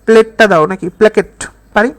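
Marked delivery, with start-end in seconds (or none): 0.0-0.7 calmly asking for the plate. Shown as a demonstration. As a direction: ask your sister gently for the plate. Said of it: "শান্তভাবে বলতেছে".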